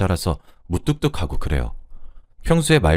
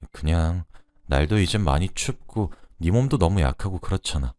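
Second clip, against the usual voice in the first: softer, gentle blunt confession; gruff but tender; 3 dB quieter than usual. Retold or imitated. Man confessing to the woman in her hospital bed, soft gruff tenderness. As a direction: say it plainly, but with quiet tenderness. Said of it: "투박하게 하지만 따뜻하게".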